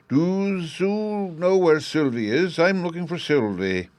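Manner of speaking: put-on high, slow small child's voice; little boy. Little Bruno asks the Chancellor for Sylvie, childlike.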